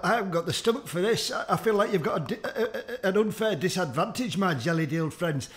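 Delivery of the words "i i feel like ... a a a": laughing. Real, not acted. Laughing mid-sentence.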